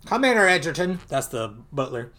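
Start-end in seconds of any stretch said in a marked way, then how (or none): 0.0-1.0 really bad Scottish accent, higher and louder; Scrooge in a bad accent. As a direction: play a grumbling miser with a hammed-up Scottish burr. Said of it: "then Scrooge is like".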